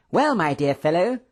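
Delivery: high, eager opening; animated excitement. A narrator's reading. Professor starting his story, excited. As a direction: launch eagerly into a tale. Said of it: "with the usual animated gestures and excitement".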